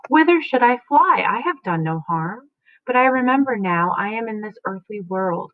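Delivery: rising into Lady Macduff's distressed question, then settling; dramatic reading. Acted. Teacher reads Lady Macduff asking where to flee, mildly alarmed. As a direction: read her lament with mild alarm.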